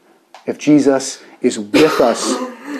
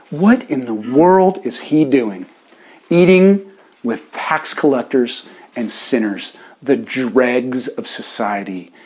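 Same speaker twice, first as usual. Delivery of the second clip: slow, weighted disapproval; mock disdain; 3 semitones lower, slower than usual. Preacher as Pharisees questioning the disciples, mock disdain. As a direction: spell out the scandal slowly. Acted Pharisees scorning Jesus' company.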